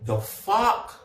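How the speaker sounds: drawn-out, slow what the fuck; retelling her reaction to the gossip; slow stunned disbelief. Retold or imitated. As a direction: stretch it out, stunned. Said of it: "I was just like".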